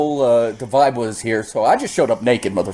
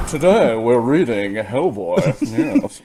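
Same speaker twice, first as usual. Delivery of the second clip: slow, lightly put-on rich guy; a hint of a pompous rich man; slower than usual. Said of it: "Let me put my rich guy voice on".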